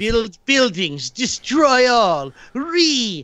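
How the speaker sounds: Doctor Wolf voice. Acted. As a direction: drag it out like a wolf-man. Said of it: "Someone asked me to do the Doctor Wolf voice".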